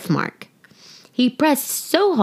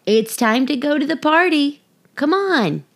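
eager call; 6 semitones higher than usual. Acted. Lucy calls Sparkle.

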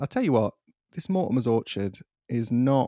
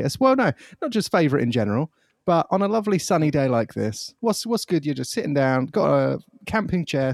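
excited; 4 semitones higher, 3 dB louder than usual. Real, not acted. Excited sunny-day pitch.

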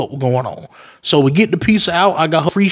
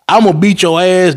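threatening; 3 semitones higher, 3 dB louder than usual. Retold or imitated. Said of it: "I'm like".

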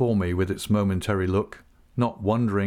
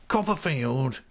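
croaking whisper; 5 semitones higher, slower than usual. A narrator's reading. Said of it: "said he in a croaking whisper".

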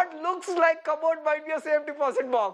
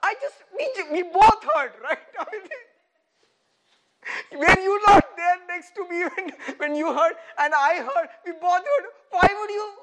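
louder, laughing disbelief; mock incredulous reply; 3 semitones higher, 4 dB louder than usual. Preacher voices Jesus, laughing and indignant at Satan. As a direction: act amazed he is tested.

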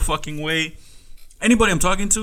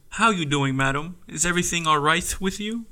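polite, carefully enunciated customer-service English; lightly put-on professional courtesy, softer; proper English for a customer; proper work voice; 4 dB quieter than usual. Shown as a demonstration. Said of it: "I speak the most proper English".

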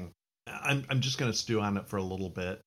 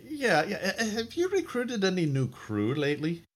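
higher captain voice; 10 semitones higher than usual. Acted. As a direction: question the crew as captain. Captain questions crewman.

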